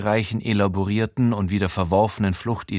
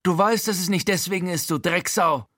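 much higher, venomous; hissed insult; 9 semitones higher than usual. A narrator's reading. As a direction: spit the insult at him. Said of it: "zischt Frankie".

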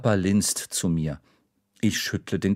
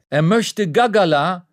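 higher, loud reply; waitress shouting to the man behind the counter; shouting back; 9 semitones higher, 6 dB louder than usual. Acted. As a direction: shout it back across the room. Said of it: "schreit die Kellnerin zurück".

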